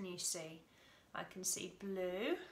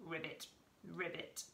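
frog croak; 4 semitones lower, 5 dB quieter than usual. Shown as a demonstration. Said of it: "This is a frog".

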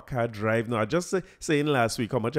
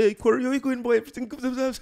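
much higher, cheery greeting voice; jovial doctor; 11 semitones higher, faster than usual. Retold or imitated. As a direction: greet him like a jolly old friend. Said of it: "a jovial fella".

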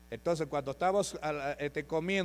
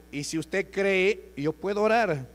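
raised, louder preacher's appeal; emphatic offer; 4 semitones higher, 5 dB louder, slower than usual. Retold or imitated. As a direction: re-enact offering prayer, pitched up and insistent. Re-enacts offering prayer to the woman.

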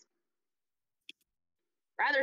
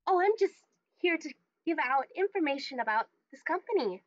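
higher-pitched, eager booth-attendant voice; perky greeter; 5 semitones higher than usual. Acted. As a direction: answer a visitor with perky helpfulness. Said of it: "she kinda perks up and is like".

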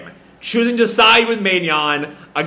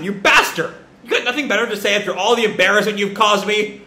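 raised, fast furious accusation; angry outburst; 5 semitones higher, faster than usual. Acted. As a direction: yell at him, fast and stung. Main Yan grabs him furiously.

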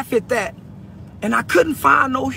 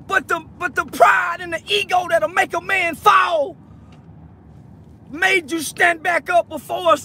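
impassioned plea; 5 semitones higher than usual. Real, not acted. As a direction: pour it all out to him. Emotional plea to injured friend.

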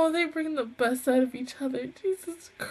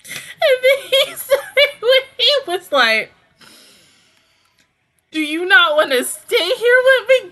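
excited; 7 semitones higher, 9 dB louder than usual. Real, not acted. Retelling the tender line.

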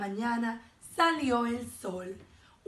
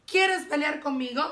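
higher, louder daring question; brash challenge; 5 semitones higher, 5 dB louder than usual. A narrator's reading. Grumpy ladybug challenging a sparrow, loud and brash. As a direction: pick a fight loudly.

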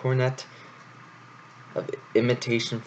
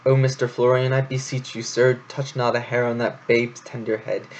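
a touch of theatrical pleading mother; declaiming; 2 semitones higher than usual. Acted. Mouse begs Florian to spare the babe, lightly theatrical. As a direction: plead grandly, lightly overacted.

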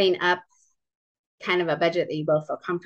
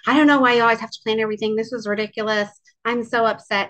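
higher, louder, fast retold rant; upset outburst; 4 semitones higher, 4 dB louder, faster than usual. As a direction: rattle off his upset complaint quickly. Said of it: "he'd start getting so upset and be like".

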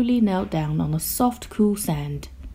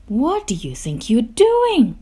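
mildly indignant cry, raised pitch; 5 semitones higher, 3 dB louder than usual. A narrator's reading. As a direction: cry out in higher-pitched protest. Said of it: "cried Grouch".

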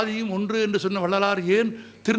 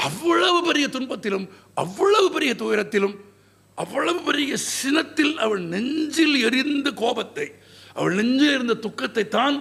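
higher-pitched, emphatic literary declamation; stirring epic recital in a raised pitch; impassioned oratory; 6 semitones higher than usual. Acted. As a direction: build grief and anger through repeated phrases. Impassioned telling of Kannagi's grief.

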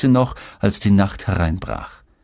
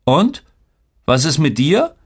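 mother's question; 7 semitones higher than usual. A narrator's reading. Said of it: "fragte sie".

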